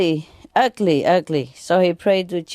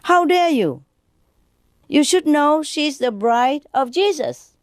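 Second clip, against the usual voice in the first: high, sharp indignant outburst; a nun bristling at the insult; 8 semitones higher than usual. Acted. Nun snapping back at the patient, indignant and high. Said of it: "the nun was very indignant".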